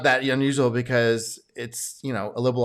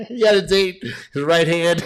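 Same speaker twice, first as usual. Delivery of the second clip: laughing joke; 6 semitones higher than usual. Real, not acted. Host making a crude joke about dating, laughing. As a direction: blurt the punchline through real laughter.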